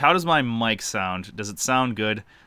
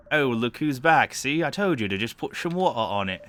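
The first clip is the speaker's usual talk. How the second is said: bad British accent; 3 semitones higher than usual. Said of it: "give the female a shitty British voice".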